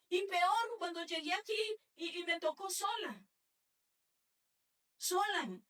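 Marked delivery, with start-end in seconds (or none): 2.2-3.2 emphatic cry. Real, not acted. Preacher telling the church she was left alone, shouting "sola". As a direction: shout out the word sola, falling hard.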